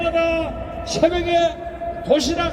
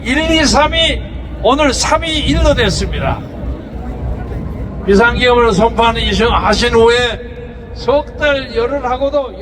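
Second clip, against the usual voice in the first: loud rally shouting; 5 semitones lower, 6 dB louder than usual. Real, not acted. Speaker rousing the rally crowd.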